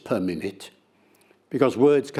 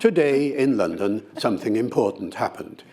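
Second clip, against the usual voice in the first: measured news bulletin read; radio newsreader; 2 semitones lower than usual. Shown as a demonstration. Lecturer showing how radio news sounds, measured newsreader delivery. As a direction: read the evening news with deliberate spacing. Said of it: "it speaks at about two hundred syllables".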